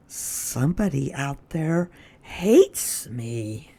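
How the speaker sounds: slow, soft, sadly to himself; sad thought. Acted. Lyle at the window, thinking sadly to himself. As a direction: let it sink in sadly. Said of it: "he could not help sadly thinking".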